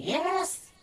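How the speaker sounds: a high, eager shouted answer; a clerk answering a call; called-back yes. Retold or imitated. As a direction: answer from the back room, quick and chirpy. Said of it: "And if someone saying".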